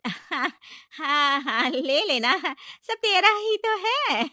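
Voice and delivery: slow, reluctant agreement; aunt reluctantly giving up her necklace; hesitant. Acted. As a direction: drag out a reluctant yes. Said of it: "थोड़ा हिचकिचाते हुए कहती है".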